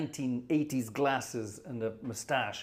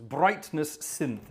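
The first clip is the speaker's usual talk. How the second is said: very slow, reading a label; slow puzzled reading; drawn out; 3 semitones higher, 4 dB louder, much slower than usual. Real, not acted. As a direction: stretch each syllable out. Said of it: "it says".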